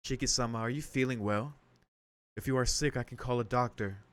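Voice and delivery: lightly voiced formal maid; careful, measured questioning as a servant; polite, concerned maid.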